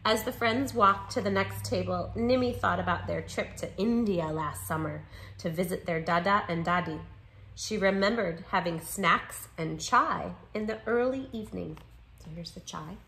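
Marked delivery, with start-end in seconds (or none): 0.0-11.8 measured picture-book read-aloud; story narration. A narrator's reading. Narrator reading a children's book about two friends, story narration. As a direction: read it clearly to young listeners.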